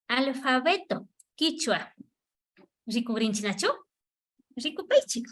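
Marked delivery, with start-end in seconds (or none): 4.5-5.3 whisper. Real, not acted. Teacher whispers instruction.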